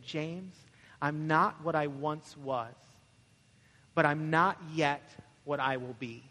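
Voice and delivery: slow, measured reply with long pauses; a hint of an elderly woman's considered answer; lightly voiced grandmother. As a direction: say it slowly, pausing between phrases. Grandmother's solemn answer acted out.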